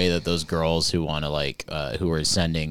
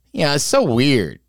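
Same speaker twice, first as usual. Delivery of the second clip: stunned; 9 semitones higher, 5 dB louder than usual. Retold or imitated. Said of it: "I remember sitting there being like".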